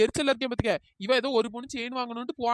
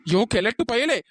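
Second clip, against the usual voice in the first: angry yell; 2 semitones lower, 5 dB louder, slower than usual. Acted. Woman yells at old man.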